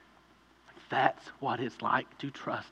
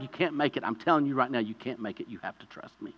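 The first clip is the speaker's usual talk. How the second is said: tender plea. Acted. Rescuer pleads with drowning man.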